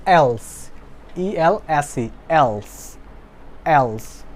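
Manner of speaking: else said slowly and clearly as /els/ for students to copy; model for repetition. Shown as a demonstration. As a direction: carefully spell out and model else. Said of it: "Repeat after me". (ধীরে স্পষ্ট করে else বলা)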